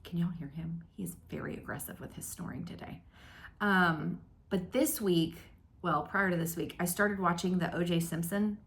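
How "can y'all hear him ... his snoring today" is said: fast hushed whisper; quick whispered grumble; whispered complaint. Real, not acted. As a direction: whisper so the sleeping dog stays asleep. Dog snoring nearby, don't wake him.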